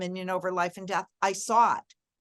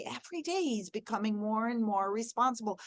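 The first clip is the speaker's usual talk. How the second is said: softer, steady hopeful affirmation; positive affirmation; 3 semitones higher, 4 dB quieter than usual. Shown as a demonstration. Mother repeating a hopeful word about her son, softly. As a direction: say it as a quiet promise. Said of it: "but I could say".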